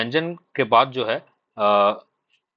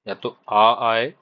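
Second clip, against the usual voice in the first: drawn-out demo; much slower than usual. Shown as a demonstration. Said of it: "अगर पहला place का vowel".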